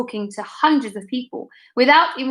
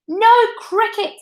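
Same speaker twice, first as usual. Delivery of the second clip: put-on a much higher childlike call; pupil's call; 11 semitones higher than usual. A narrator's reading. Another pupil chiming in: much higher childlike call. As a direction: pipe up from the crowd. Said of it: "another said".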